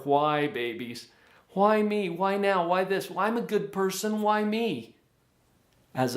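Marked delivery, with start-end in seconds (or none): 1.5-5.0 higher, sulky mock whine; hammed-up complaining whine; whiny voice. Shown as a demonstration. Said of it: "Kind of in a whiny voice".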